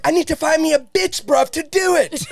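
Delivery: 1 London lad voice. Retold or imitated. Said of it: "He's like".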